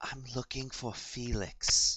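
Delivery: soft, hushed, barely voiced whisper. A player's character asks two hushing girls about someone, whispering. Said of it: "I just whisper to them".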